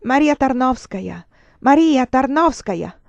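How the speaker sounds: passers-by adding their cry; crowd's shout. Acted. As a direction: join the crowd crying out her name. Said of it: "aggiunge il suo grido al grido lontano".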